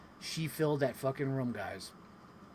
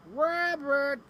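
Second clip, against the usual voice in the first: Tigger voice; 10 semitones higher than usual. Retold or imitated. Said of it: "and he says".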